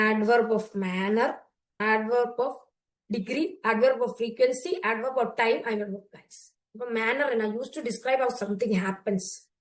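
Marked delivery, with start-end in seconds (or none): 0.1-6.5 slow listing. Shown as a demonstration. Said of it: "teacher listing types". 7.5-9.5 very slow, word by word; deliberate classroom dictation pace. Shown as a demonstration. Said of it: "teacher reading definition".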